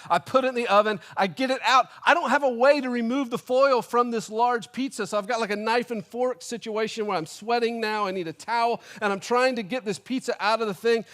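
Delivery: high, escalating comic exasperation; mock-furious blow-by-blow, hammed up; angry rant. Customer recounting his struggle with uncut pizza, comic anger. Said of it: "I'm so angry".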